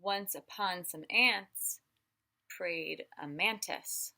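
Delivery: slow, deliberate storybook reading; slow read-aloud to a little one. Acted. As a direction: read each word slowly to a child. Reading the picture book aloud.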